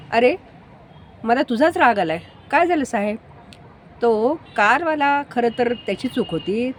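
irritated, pitch climbing in complaint; annoyed scolding. Retold or imitated. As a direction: scold him for not standing up for himself. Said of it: "त्यांना मात्र त्या रिक्षावाल्यालाच राग आला".

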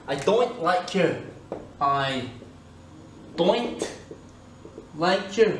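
Scottish demo, don't said as doint; emphatic Scottish accent. Shown as a demonstration. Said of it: "en écossais, se dit doint".

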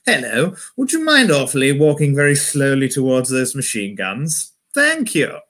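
hint of polite posh English; posh English accent. Officer politely sending soldiers towards guns, lightly posh English accent. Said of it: "the posh English accent".

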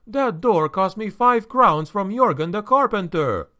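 high-pitched, lightly voiced fretful innkeeper; quavering voice. A narrator's reading. Innkeeper protesting about his expensive door, high quaver. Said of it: "the quavering voice said".

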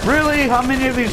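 very high, incredulous outburst; exasperated disbelief. Real, not acted. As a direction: protest the endless enemies in a high voice. Exasperated by more enemies.

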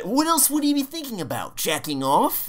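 high mocking impression of friend; exaggerated high squeaky imitation; imitating friend. Retelling a quote from stream.

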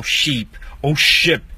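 "sheep" long ee, "ship" short i, slowly; long then short i. Shown as a demonstration. Teacher contrasting "sheep" and "ship" slowly. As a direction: drag "sheep" and clip "ship". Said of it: "ip, dois Es".

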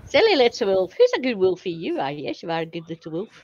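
playful mock baby talk to a wolf; pet-talk cooing. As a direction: coo as if praising a naughty puppy.

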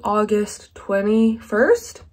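just woke up, sleepy and slow; drowsy morning greeting; groggy morning voice. Real, not acted. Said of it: "morning groggy voice".

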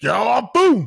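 sudden loud boom; excited exclamation. Retold or imitated. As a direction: shout it out high. Describing a sudden hit.

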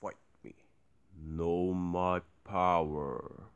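low villain voice. Retold or imitated.

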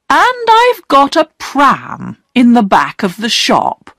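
a hint of a gentle old lady offering a pram; kindly shop lady. Shop lady offers the children a pram, lightly voiced. Shopkeeper woman speaks to children.

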